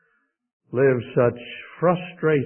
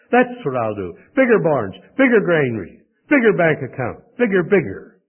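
loud, punched, lightly acted list; ambitious rich man; 3 semitones higher, 5 dB louder than usual. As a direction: build the boast item by item. Preacher voices the ambitious rich man.

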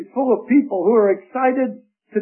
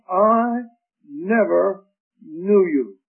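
slow and low, each word weighed; slow, low verdict; 3 semitones lower, slower than usual. Shown as a demonstration. Preacher voicing the Lord's verdict to false believers, slow and low. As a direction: let it fall slowly like a final judgment. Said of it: "His word will be".

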